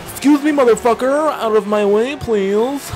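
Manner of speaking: high, loud hammed-up excuse me; mock-polite demand. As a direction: demand passage with exaggerated, sing-song courtesy. Mock-polite yell at a blocking car.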